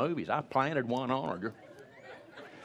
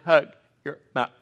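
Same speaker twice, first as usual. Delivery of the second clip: insistent mother; 3 semitones higher, 7 dB louder, faster than usual. Retold or imitated.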